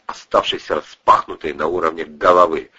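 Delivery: ordinary delivery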